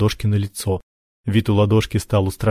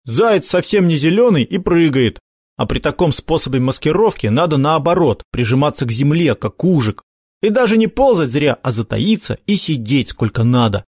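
put-on lecturing older brother; 5 semitones higher than usual. Makar lectures his brother.

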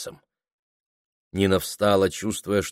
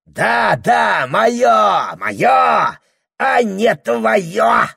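higher, louder, slowed-down gloating yell; gleeful shouting; 13 semitones higher, 7 dB louder, much slower than usual. A narrator's reading. Husband gloating at his wife, relishing the shout. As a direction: savour every shouted word. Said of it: "выкрикнул он с особым сладострастием".

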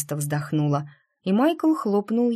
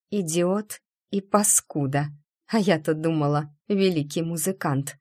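through gritted teeth. Acted. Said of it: "процедила".

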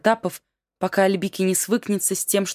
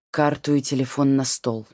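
curt; 3 semitones lower than usual. Acted. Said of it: "коротко сказал Имран".

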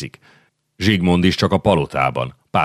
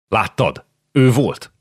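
excited recognition; 5 semitones higher, slower than usual. Acted. Jankó exclaiming to Miklós that he saw his friend, excited. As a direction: blurt it out as you spot him.

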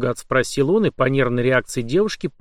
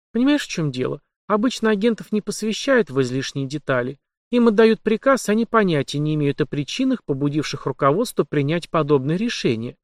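higher, lightly voiced heroine; young woman voice; 3 semitones higher than usual. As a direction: voice the journalist, higher. Heroine's long explanation.

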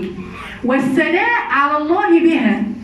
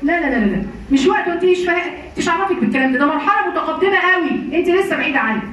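condescending teacher; 5 semitones higher than usual. Retold or imitated. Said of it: "هذا سوء أدب".

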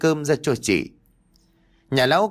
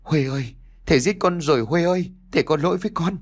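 grieving father's cry, rising higher; mournful wailing; 5 semitones higher, faster than usual. A narrator's reading. Father wails over his dead daughter, grief-stricken. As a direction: wail for your dead daughter. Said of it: "gào lên thê lương".

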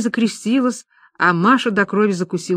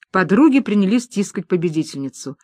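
plain reading voice

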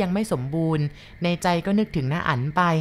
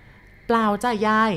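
put-on higher, slow child's reply; polite boy; 5 semitones higher, 4 dB louder, much slower than usual. Boy politely tells grandma no. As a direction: answer sweetly and slowly.

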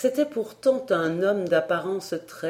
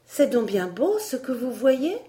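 put-on wondering girl; 6 semitones higher than usual. A narrator's reading. Elsie wondering.

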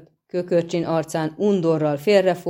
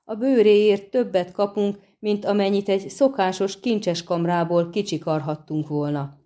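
roaring outburst; 3 semitones higher than usual. Acted. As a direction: bellow it at him in greedy disbelief. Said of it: "hördült fel Járpen Zigrin". (felhorkanó, hangos kiáltás)

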